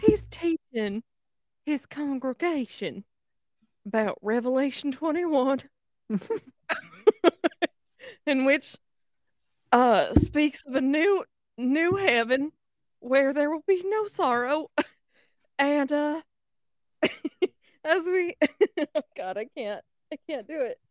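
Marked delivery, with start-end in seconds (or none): 0.0-5.6 halting put-on Southern drawl; slow Southern accent. Cohost reciting the episode recap, slow Southern accent. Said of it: "That's what you sounding like right now with how slow you are". 8.3-18.4 Southern drawl with long halts; slow Southern accent. Pretend. Cohost trying to finish the recap, halting Southern accent. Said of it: "try to do it a little bit quicker".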